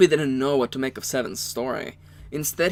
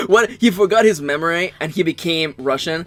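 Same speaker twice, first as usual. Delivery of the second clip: laughing; 3 semitones higher, 7 dB louder than usual. Real, not acted. Laughs at co-player's German voice.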